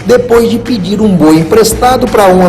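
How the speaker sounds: loud, lively TV intro read; announcer voiceover. Acted. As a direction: present it like a program opener. TV intro voiceover over music.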